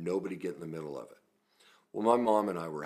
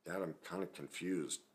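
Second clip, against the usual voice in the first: softer, hesitant retold objection; mildly sheepish, tentative son; 3 dB quieter than usual. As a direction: timidly question a parent, with pauses. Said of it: "very sheepishly, I said".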